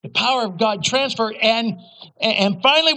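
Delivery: ordinary delivery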